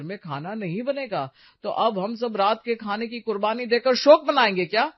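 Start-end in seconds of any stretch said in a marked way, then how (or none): 1.6-4.8 louder, sarcastic outburst at his wife; he snaps loudly at the missed dinner; angry shout. Acted. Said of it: "चिल्लाना बंद कीजिए".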